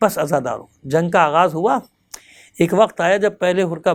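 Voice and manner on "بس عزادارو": whisper. Real, not acted. Preacher hushing mourners.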